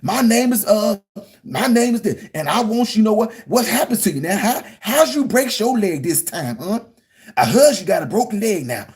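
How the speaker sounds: hammed-up folksy Southern drawl, lilting high; mock Huckleberry Finn drawl. Shown as a demonstration. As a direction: put on a hokey rural Southern voice. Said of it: "gonna goes around talking like this".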